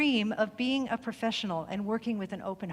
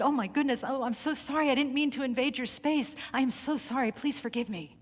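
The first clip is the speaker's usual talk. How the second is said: higher, rushed, flustered sorry-sorry; flustered apology; 5 semitones higher than usual. Retold or imitated. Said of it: "became flustered".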